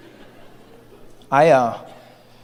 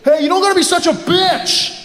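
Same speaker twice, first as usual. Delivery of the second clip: higher, sneering insult; nasty creepy guy; 10 semitones higher than usual. Acted. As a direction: spit it out as a rejected creep.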